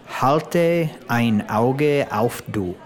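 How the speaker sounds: slow, careful "Halte ein Auge auf du"; learner's slow try. Shown as a demonstration. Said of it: "you can't say it like that".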